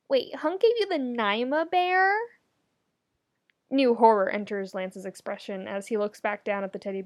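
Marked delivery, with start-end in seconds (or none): 0.1-2.2 higher, startled question; stunned Lance at the reveal; shocked. Acted. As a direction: catch yourself mid-shock.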